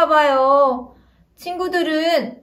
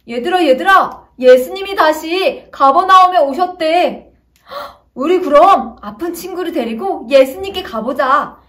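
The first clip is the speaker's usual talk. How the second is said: excited call; 2 semitones higher, 4 dB louder than usual. Acted. Friends excitedly propose going.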